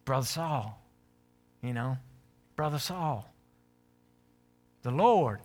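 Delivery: lightly voiced soothing preacher, softening him up; a hint of a smooth preacher winning him over; preacher talk. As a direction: coax him gently like a pastor. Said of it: "This is like preacher talk".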